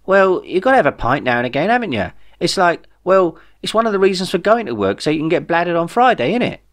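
a worked-up Jeff with big news. Acted. Jeff explains British pub culture.

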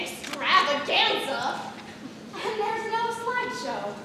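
dry sarcastic praise. Acted. Stage manager sarcastically scolding her assistant Deb. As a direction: needle Deb with fake delight.

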